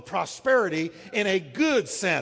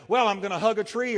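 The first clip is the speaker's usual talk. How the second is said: quick, flippant excuse voice; mock excuse; 2 semitones higher, 4 dB louder, faster than usual. Preacher mocking excuses made to God, quick and flippant. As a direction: toss off a lame excuse. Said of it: "You can say to him".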